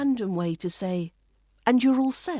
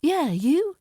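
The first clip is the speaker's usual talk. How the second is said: casual reply; 7 semitones higher, 4 dB louder than usual. Shown as a demonstration. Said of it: "Just say".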